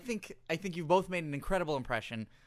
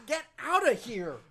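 high, loud mock agony; in mock pain from the noise; hammed-up pain; 8 semitones higher, 6 dB louder, much slower than usual. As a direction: wail as if your ears hurt.

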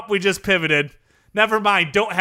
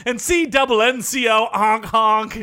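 silly clown; 3 semitones higher than usual. Acted. Zany tech exec character.

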